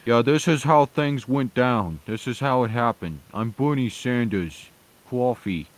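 high-pitched, uncharismatic politician with a put-on accent; mock a charisma-free old-style stump speaker; Bernie Sanders impression. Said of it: "he's just talking like".

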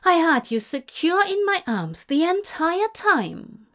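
high-pitched indignant insistence; insist, still affronted; offended. A narrator's reading. Angel defends himself to demon, offended and high.

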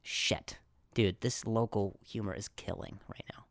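unvoiced whispered aside; whispering. Real, not acted. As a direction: whisper it to yourself.

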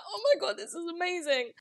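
high-pitched, gushing mock amazement; acted-out delight. Reader reacting to a book she loves, acted-out delight. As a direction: gush as if thrilled by a book.

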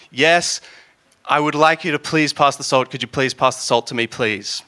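a hint of strained pleading; exasperated request. Sibling begging for the salt, mock exasperated. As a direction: push the ask through gritted teeth. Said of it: "where you're like".

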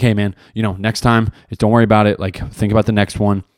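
low, easygoing coach reassurance; coach's pep talk. Retold or imitated. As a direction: imitate a coach consoling an athlete, pitched low. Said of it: "trying to give me the pep talk".

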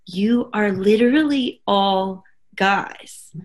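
slow, deliberate "You are literally all guys"; incredulous retort. Retold or imitated. The speaker answering her team lead, slow and incredulous. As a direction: lay out the obvious, word by word. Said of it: "And I was like".

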